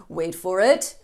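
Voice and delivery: calm, drawn-out waiting; slow mock patience; patient hold. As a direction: hold them back patiently. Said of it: "was like".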